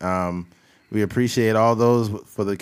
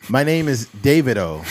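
fake foreign language. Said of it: "You can't just put a O at a word afterwards".

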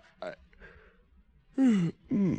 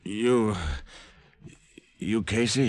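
drugged; 3 semitones higher than usual. Acted. Drugged, fading into unconsciousness.

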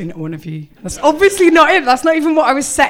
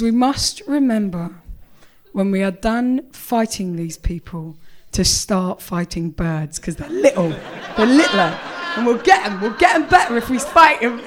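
mock serious; 4 semitones lower than usual. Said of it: "my face was very serious".

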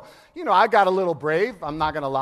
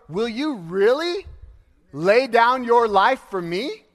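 friendly jab. Retold or imitated. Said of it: "it's a friendly jab".

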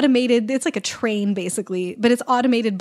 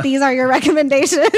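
robot voice; 3 semitones higher, 6 dB louder than usual. Pretend. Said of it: "say in robot voice".

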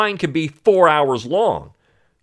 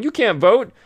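high mocking quote voice; mock a bouncer at the polls; imagined gatekeeper; 11 semitones higher than usual. Host mocks imagined poll gatekeeper, high mocking voice.

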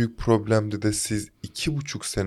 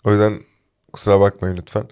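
blocked nose, congested voice; talking through a stuffy nose; 5 dB louder than usual. Real, not acted. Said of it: "burnum tıkalı ve sesim böyle çıkıyor".

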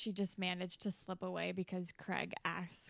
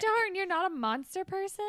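high mock-flirty starlet; breathy flirting, pitched up; 10 semitones higher, 4 dB louder than usual. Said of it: "flirty, like, weird, breathy voice".

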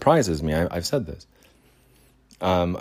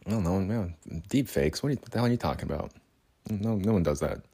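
mocking dismissal; 5 dB quieter, faster than usual. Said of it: "it's just like".

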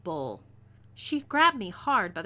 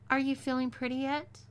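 higher, taunting lilt; teasing; 6 semitones higher than usual. A narrator's reading. Captor taunts the dressed-up captive about feeling pretty, teasing. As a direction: tease with a lifted questioning voice. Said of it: "Layla teased".

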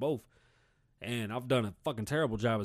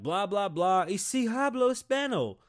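advert announcer; 7 semitones higher, 4 dB louder than usual. Retold or imitated. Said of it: "Every fucking establishment's like".

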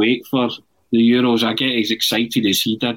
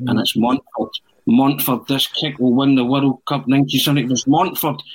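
lightly voiced live football commentator, rising; building like a match commentator calling a penalty; mock commentary; 2 semitones higher than usual. Man in an empty stadium commentating on his own kick, building mock commentary. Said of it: "he started commentating on himself".

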